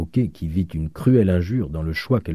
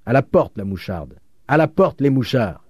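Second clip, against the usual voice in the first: high, loud bursts of jeering; punchy heckling chant; shouting crowd; 6 semitones higher, 4 dB louder than usual. A narrator's reading. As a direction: call out for expulsion. Crowd calls for expulsion.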